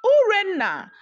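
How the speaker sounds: a desperate high call for help; cried out. A narrator's reading. King calling out to his dying wife, desperate cry. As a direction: call out to her in panic. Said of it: "he cried".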